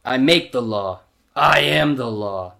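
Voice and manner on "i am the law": slow, toned-down lawman impression; Judge Dredd. Reader repeating the movie impression, slow stern lawman. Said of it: "do my quick Judge Dredd".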